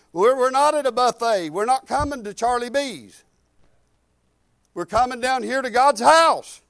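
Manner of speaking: driving, sustained preacher's delivery; preaching. Real, not acted. Preacher urging the church to trust God for needs, preaching. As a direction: preach it with insistent force.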